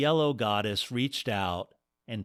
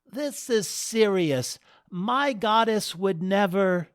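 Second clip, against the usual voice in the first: impatient; 10 semitones higher, 4 dB louder than usual. Acted. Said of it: "Dale's patience wore thin".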